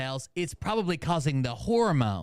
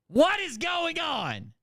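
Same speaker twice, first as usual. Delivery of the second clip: high, slow drawn-out disbelief; stunned disbelief; 12 semitones higher, slower than usual. Real, not acted. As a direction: stretch it out, totally baffled. Reacting to the tattoo.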